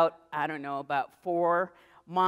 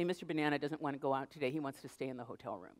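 coaxing parents; 5 semitones lower, 10 dB quieter, faster than usual. Retold or imitated. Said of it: "they say".

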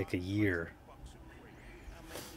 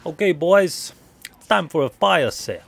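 put-on higher, louder rallying the boys; rallying call; 7 semitones higher, 7 dB louder than usual. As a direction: call the crew to action, raised and bright. Announcing to game crew.

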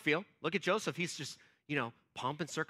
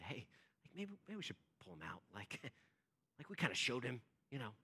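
low, very soft, hesitant voice; tentative objection; 7 semitones lower, 13 dB quieter, faster than usual. Retold or imitated. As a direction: imitate someone hesitantly speaking up. Imagined brother timidly objecting.

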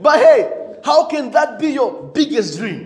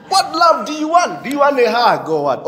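exasperated shout; 3 semitones higher than usual. Real, not acted. Preacher calling out complainers, a raised challenge. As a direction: demand an answer.

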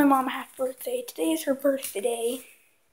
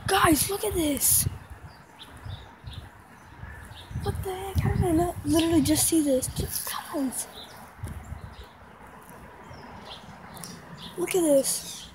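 shocked disbelief; 3 semitones higher, 5 dB quieter than usual. Real, not acted. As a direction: react as if you can't believe it. Discovering wrecked yard in shock.

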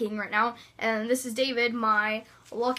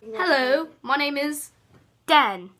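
Dan impression; 4 dB louder than usual. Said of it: "That was my impression of Dan".

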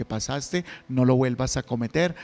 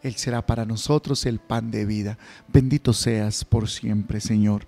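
lower, measured priestly prayer; liturgical prayer; 3 semitones lower than usual. Acted. Priest's offertory prayers at Mass.

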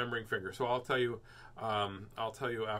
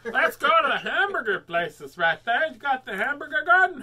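excited; 12 semitones higher, 11 dB louder than usual. Real, not acted. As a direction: excitedly call out the plan. Excited about hamburger garden.

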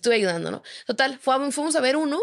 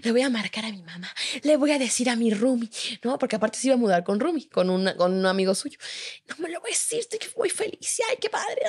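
hammed-up happy chatter, pitched up; mock excited boyfriend; 3 semitones higher than usual. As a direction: parody his overexcited rambling.

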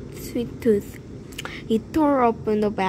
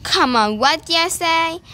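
1 urging; 6 semitones higher, 4 dB louder than usual. A narrator's reading. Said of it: "urged the tooth".

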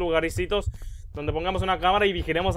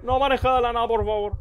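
a mock panicked cry, higher and louder; mock frightened shriek of God no; retold scared yelp; 5 semitones higher, 4 dB louder than usual. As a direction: replay the jump scare as a startled shriek. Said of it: "yo como que".

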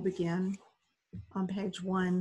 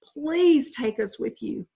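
slow, higher, louder pleading; sobbing plea; 6 semitones higher, 6 dB louder, slower than usual. Acted. Boy clinging to the boat begs to be taken, slow sobbing plea. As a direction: beg slowly through the struggle. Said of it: "He sobbed with the effort".

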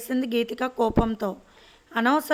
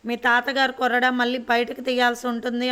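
a firm, raised-voice threat; slightly louder stern warning. Acted. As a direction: grandmother warns the household, voice raised. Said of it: "బిగ్గరగా అరిచి".

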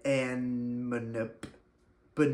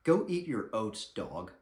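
mock tough owner telling off a customer; blunt dismissal; slower than usual. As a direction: toss it off like a cold insult. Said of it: "simply says".

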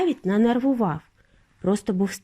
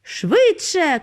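raised, pressing call; urgent cry; 7 semitones higher than usual. A narrator's reading. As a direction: urge them on, pitched high. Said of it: "кричав містер Вонка".

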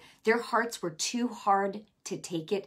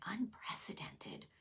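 breathless whispered awe on Unprecedented; awed whisper; 16 dB quieter, slower than usual. Retold or imitated. Preacher hearing the Holy Spirit's word, answering in an awed whisper. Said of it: "And I went".

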